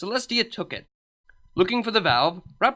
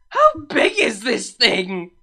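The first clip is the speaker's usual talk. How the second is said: winded; 5 semitones higher, 6 dB louder, slower than usual. A narrator's reading. Celestia out of breath after blowing.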